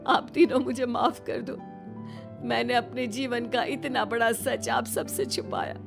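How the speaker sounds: apologetic, on the verge of tears; tearful confession. Acted. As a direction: confess a long-kept secret in tears. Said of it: "Yamini की आंखों में आंसू आ जाते हैं".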